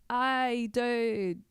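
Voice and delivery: high, drawn-out drunk impression; drunk person. Shown as a demonstration. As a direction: stretch it out like a mock drunk. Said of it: "sounds like anyone who's drunk".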